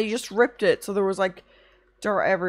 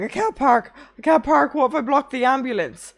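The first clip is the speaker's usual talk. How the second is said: panicky, higher and louder, building on the repeat; imitating panic; 4 semitones higher, 4 dB louder than usual. Retelling Andrea panicking about blocking the ambulance, mock panic. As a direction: mimic a flustered friend who can't find parking. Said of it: "freaking out and she's like".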